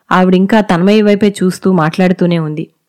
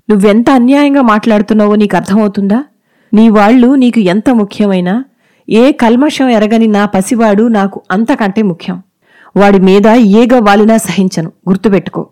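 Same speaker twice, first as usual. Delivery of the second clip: hurt anger; 2 semitones higher than usual. Acted. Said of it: "బాధ, కోపం చుట్టుముట్టేయి".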